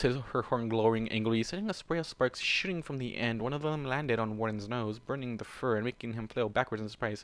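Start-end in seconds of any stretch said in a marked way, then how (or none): none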